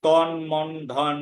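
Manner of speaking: slow "তন মন ধন", each ending in n; dental n. Shown as a demonstration. Teacher giving examples, slow "তন মন ধন" with n. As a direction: space out "তন মন ধন", clear final n. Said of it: "উচ্চারণ হবে".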